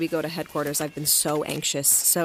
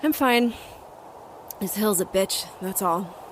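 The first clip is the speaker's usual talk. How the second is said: defensive insistence; 3 semitones higher than usual. Acted. Murphy insisting despite injured ribs.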